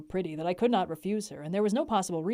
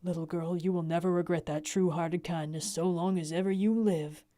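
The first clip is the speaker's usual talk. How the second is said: calm. Acted. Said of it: "He said quite calmly".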